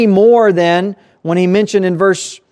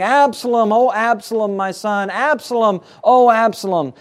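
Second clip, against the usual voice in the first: higher, keening lament, lightly acted; crying father; 5 semitones higher than usual. David in his chamber grieving his son, mild mock crying. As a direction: mourn the son's name, a touch of sobbing. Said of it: "and he's crying".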